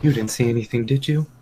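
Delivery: Pooh voice. Retold or imitated. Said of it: "He's like".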